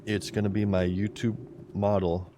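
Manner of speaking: interrupted by a hiccup. Real, not acted. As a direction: speak through hiccups. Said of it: "Sorry, I keep hiccuping".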